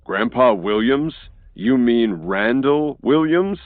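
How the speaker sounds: loud, slow stunned question; surprised. A narrator's reading. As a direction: gasp out the name in disbelief. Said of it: "Cook asked in surprise".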